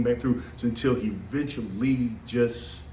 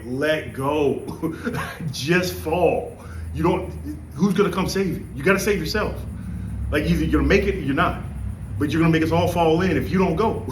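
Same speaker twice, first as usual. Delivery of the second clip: high and loud, laughing while urging her on; laughing urgent yell; 6 semitones higher, 4 dB louder than usual. Retold or imitated. Trainee hanging upside down yelling at the stuck girl ahead, high and laughing. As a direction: shout at her to let go, half laughing.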